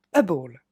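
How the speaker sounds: a ball said low and clear for repeating; model pronunciation. Shown as a demonstration. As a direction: say a ball slowly, for students to copy. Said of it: "vous allez répéter après moi". (a ball, prononcé lentement pour la répétition)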